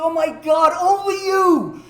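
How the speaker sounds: high, loud hysterical friend. Retold or imitated. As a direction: wail in hammed-up panic. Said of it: "like, hysterical".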